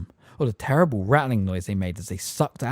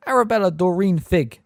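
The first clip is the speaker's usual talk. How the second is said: quivering voice; 8 semitones higher, 6 dB louder than usual. A narrator's reading. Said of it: "in a quivering voice".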